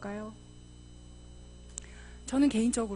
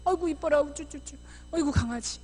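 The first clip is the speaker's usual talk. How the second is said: cooing over a little one, starting high; acted grandparent-like baby talk; doting fussing; 4 semitones higher than usual. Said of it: "이렇게 예뻐해주는 어른들이".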